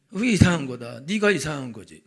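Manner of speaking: loud mock indignation; 언성을 높여 따지듯 흉내; mock indignant. Voiced argument between regions. (크게 따지는 흉내)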